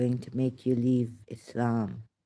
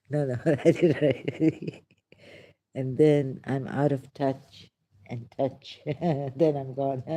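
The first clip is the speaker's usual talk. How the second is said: louder, laughing through the words; 4 dB louder than usual. Real, not acted. Laughing at her own prose while reading it aloud. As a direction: giggle at your own lines.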